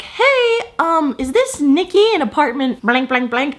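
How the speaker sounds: high, lightly mocking impression of the manager. Imitating her apartment manager on the phone, high polite mock voice. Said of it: "And she's like".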